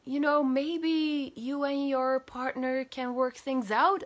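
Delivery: mock her patronising advice, slowly; lightly voiced director. Director suggests getting back together.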